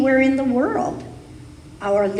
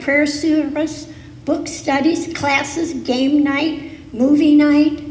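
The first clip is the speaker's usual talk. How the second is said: movie night burst out louder at the end of the list; excited; 3 semitones higher, 4 dB louder, slower than usual. Pretend. Picturing a thriving church for the congregation, excited. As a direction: let the list peak with a loud movie night.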